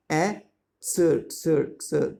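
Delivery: "A" alone, then "sir" repeated as a separate syllable; sounded-out syllables. Shown as a demonstration. Teacher sounds out exercise for pupils, "A" and "sir" separated. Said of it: "A sound is there".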